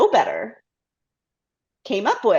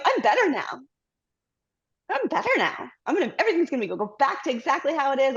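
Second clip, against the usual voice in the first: forced cheer; 2 semitones higher than usual. Retold or imitated. Forcing herself back to work.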